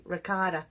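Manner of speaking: "Ricotta" with all three syllables and a final ah; other people's pronunciation. Shown as a demonstration. Showing viewers how others say it, full standard pronunciation of "Ricotta". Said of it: "Not like we say".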